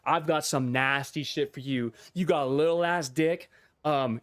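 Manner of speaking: lightly mocking a smug internet troll. Mocking trolls who insult streamers, lightly smug. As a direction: sneer it like a pleased troll.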